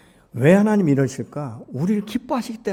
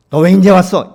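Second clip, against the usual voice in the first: much louder, higher mock scold; scolding rebuke; 7 semitones higher, 15 dB louder than usual. Pastor voicing the God who would not scold returning sinners, mock loud rebuke. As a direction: snap at the latecomer. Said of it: "이렇게 하시는 분이 아니에요".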